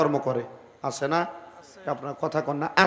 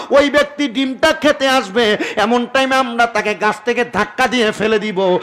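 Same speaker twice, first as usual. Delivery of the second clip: loud, forceful account; calling out; 4 dB louder than usual. Acted. Jinn explain themselves to the prophet, loud calling voice. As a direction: report it in a raised preaching voice. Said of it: "জিন জাতি ডাক দিয়া কয়".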